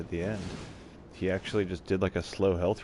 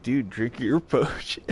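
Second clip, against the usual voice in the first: laughing; 3 semitones higher, 5 dB louder than usual. Retold or imitated. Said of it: "he's like".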